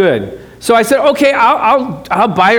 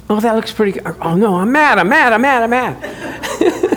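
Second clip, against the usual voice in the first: laughing mock anger; 3 semitones higher than usual. Happy, then catching himself.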